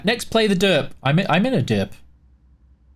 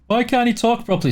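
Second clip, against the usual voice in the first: higher-pitched mimicry of critics; complaining viewers; 7 semitones higher than usual. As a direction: mimic people griping about your speech. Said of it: "when people say".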